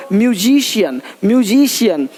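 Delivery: म्यूजिशियन said as "myu-ZEE-shiyan", stretched middle, falling end; model pronunciation. Shown as a demonstration. English teacher modelling C as sh for learners, careful pronunciation. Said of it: "सी का उच्चारण श होता है".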